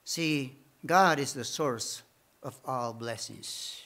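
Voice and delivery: ordinary talk, nothing marked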